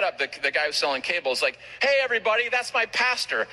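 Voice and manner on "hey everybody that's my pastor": high-pitched excited call to the crowd; proud announcement. Retold or imitated. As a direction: imitate someone proudly showing off his pastor. Cable guy announcing pastor to crowd.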